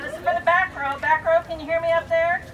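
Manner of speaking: loud, projecting to the back row; projected teacher voice. Real, not acted. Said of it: "teacher voice for the win".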